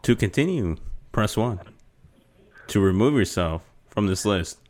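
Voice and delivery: slow, even recorded-menu voice; automated phone menu voice. Acted. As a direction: read it like a phone system. Plays automated phone service.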